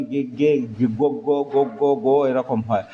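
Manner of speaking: গে and গো said as short separate syllables; sound demo. Shown as a demonstration. Teacher demonstrates the reduced pronunciation, sounding it out. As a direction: sound out গে, গো one by one. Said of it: "উচ্চারণে".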